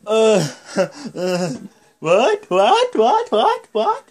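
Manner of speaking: very high, loud repeated yelps; agitated challenge. Retold or imitated. Agitated wrestler jumping on the apron, high mock yelping challenge. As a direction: imitate a worked-up wrestler squaring up.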